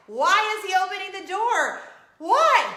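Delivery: high, loud anguished question; retold horrified bewilderment; mortified disbelief. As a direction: wail it in shock. Reenacting mortified shock.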